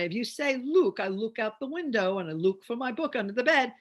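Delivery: first "look" said as "luke", with a long oo; mispronounced look. Shown as a demonstration. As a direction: say LOOK with the oo of "moon". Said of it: "Do you say look or do you say look".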